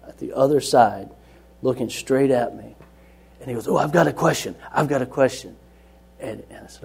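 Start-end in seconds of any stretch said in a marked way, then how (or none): 3.7-5.5 eagerly blurted question, a bit raised; mildly excited, imitating an eager boy; eager kid. Teen in Bible study has a question for the teacher, mildly excited. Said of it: "the boy's getting really excited".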